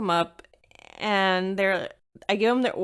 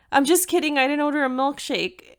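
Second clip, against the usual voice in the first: imitating a prankster guy, higher and louder; teasing guy; 6 semitones higher, 4 dB louder than usual. Cute guy pranking the drive-through girl, mock teasing. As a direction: toss off the joke with a smug grin. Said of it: "he goes".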